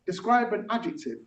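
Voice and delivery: rhythmic spoken-word verse; rap-like recital with deliberate gaps; poem performance. Acted. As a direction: land each line on the beat, pausing between. Performs own technique poem.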